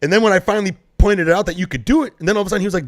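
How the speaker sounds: normal talking voice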